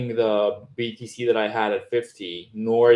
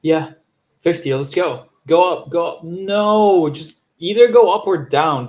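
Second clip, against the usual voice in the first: loud, pitched-up urging at the chart; frustrated yelling; 7 semitones higher, 8 dB louder than usual. Real, not acted. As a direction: yell at the price to move.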